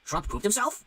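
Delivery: high-pitched mock headline voice; mock news headline. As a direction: squeal it like a ridiculous breaking headline. Voicing news outlets' crazy headlines.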